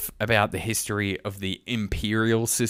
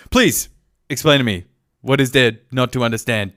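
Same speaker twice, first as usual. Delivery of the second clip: exasperated; 5 dB louder than usual. Retold or imitated. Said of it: "I'm like".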